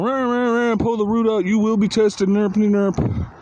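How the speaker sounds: high, loud, hammed-up preacher babble; mocking preacher. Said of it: "He's all".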